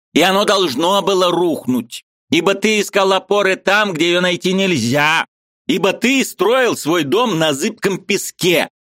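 high, eager voice of a Ukrainian friend; lively high-pitched friend arguing; Mikhalevich's voice. A narrator's reading. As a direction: play the excitable friend up high. Mikhalevich preaching.

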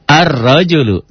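"Ar-rajulu" with the r doubled, no l; lam left silent. Shown as a demonstration. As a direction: glide from a straight into a long rolled r in "Ar-rajulu". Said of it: "Nggak dibaca kan?".

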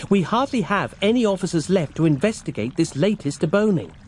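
Roz voice. Acted.

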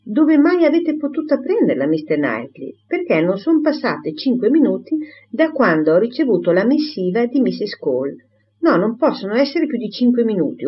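a lightly voiced gossip who cannot stop; mildly voiced excited old maid; Miss Bates chattering.

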